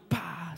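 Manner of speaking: soft "pa" sound effect; a quick, quiet spoken smack; imitated blow. Storyteller showing how he hit back, imitated blow.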